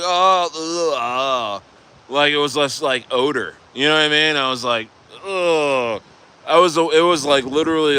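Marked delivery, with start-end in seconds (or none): 0.0-1.6 mock retching "ugh"; disgusted groan. Client recalling the smelly hand, disgusted groan. 5.2-6.0 drawn-out mock "ugh"; disgusted groan. Client recalling the odor, disgusted groan.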